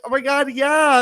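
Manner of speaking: high, loud gushing reply; retold excited agreement. Fan answering Stacy, re-enacted high excited squeal. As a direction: squeal your agreement, retelling it. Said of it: "I was like, I was like".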